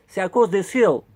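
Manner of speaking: put-on clumsy English accent on French words; mock English accent, lightly done; horrible English accent. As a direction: keep up the bad English-accented guide voice. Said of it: "Quel horrible accent anglais".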